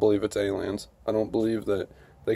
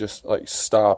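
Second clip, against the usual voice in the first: usual speaking voice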